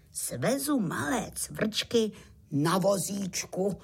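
slow, measured proclamation; solemn announcement. A narrator's reading. Pytlík announcing a cart ride to the crickets, solemn. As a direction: announce it ceremoniously, word by word. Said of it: "prohlásil slavnostně".

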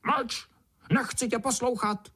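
high, sharp shout-down; beetle snapping. A narrator's reading. Beetle yells at the ant inside her. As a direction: cut him off, high and squeaky. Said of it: "okřikovala mravence".

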